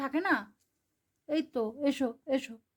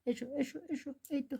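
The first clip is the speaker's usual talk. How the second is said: soft coaxing; 3 semitones higher, 8 dB quieter than usual. Real, not acted. Softly coaxing the pet over.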